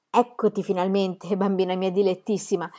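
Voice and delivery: captain greets Pippi tenderly; fond greeting. Acted. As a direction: greet your daughter lovingly. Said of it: "esclamò il capitano Calzelunghe".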